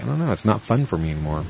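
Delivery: mildly deflated retold complaint. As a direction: let the voice sink, a touch glum.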